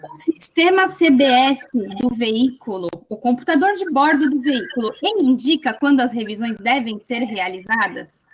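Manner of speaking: measured pace, spacing out each term. Real, not acted. Lawyer repeats her question for the expert, slowly and deliberately. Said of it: "pode repetir mais pau-, pausadamente".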